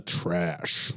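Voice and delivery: drawn-out, deliberate verdict; firm, unhesitating delivery; confident. Shown as a demonstration. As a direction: say it with confidence, on demand. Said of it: "Say it with confidence".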